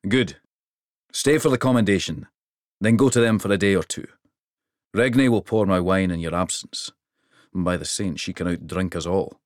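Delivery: a big king pleased with the trip; hearty king. Acted. King's voice.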